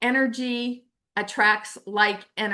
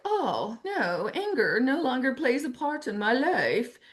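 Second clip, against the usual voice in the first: mock serene. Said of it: "I'm doing this in air quotes".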